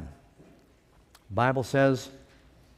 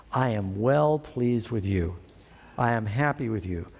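gentle God; 6 semitones lower than usual. Retold or imitated. God speaks to baptized.

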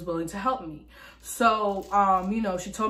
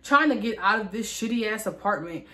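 angry. Retold or imitated. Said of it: "that pissed me off".

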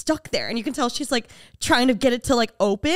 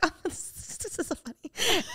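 put-on soft, high girly titter; hushed, hammed-up delight; mock giddiness; 7 semitones higher, 8 dB quieter than usual. Mimics giddy girls on subway.

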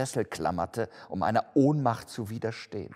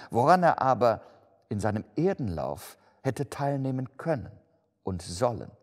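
raised, declaiming ghost voice; solemn ghost; 6 semitones higher, 5 dB louder than usual. Acted. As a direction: intone a grave sentence with swooping emphasis. (feierlich klagende Geisterstimme)

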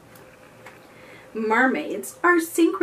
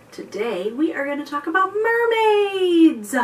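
bright, louder announcement; excited reveal; 6 semitones higher, 4 dB louder than usual. Real, not acted. Big reveal to children.

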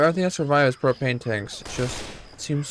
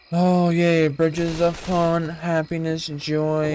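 slow, higher mock delight; sarcastic cheer; 3 semitones higher, much slower than usual. Real, not acted. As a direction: oversell the joy, deadpan. Fake cheer at scary bridge.

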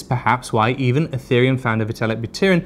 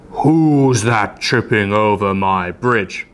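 low, slow troll rumble, half the usual pace; roaring troll; 3 semitones lower, 3 dB louder, much slower than usual. A narrator's reading. Troll roaring at whoever crosses his bridge, low and slow. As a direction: drag it out like a big troll guarding his bridge. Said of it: "roared the troll".

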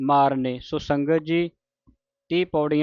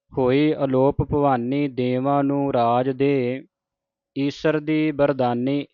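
measured, chanted reading of sacred verse; scripture recitation; slower than usual. Shown as a demonstration. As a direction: recite each line deliberately, with pauses.

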